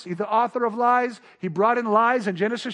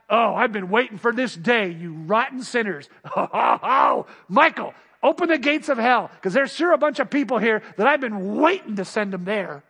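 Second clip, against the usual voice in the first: mock gloating God. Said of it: "Hell is not".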